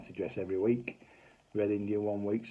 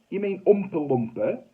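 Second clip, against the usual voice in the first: slow correction; 9 semitones higher, 7 dB louder than usual. Retold or imitated. Correcting wife, slowly.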